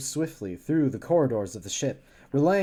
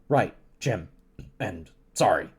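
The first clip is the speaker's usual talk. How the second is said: McCoy answering; 6 semitones lower than usual. Acted. Voices McCoy answering Kirk.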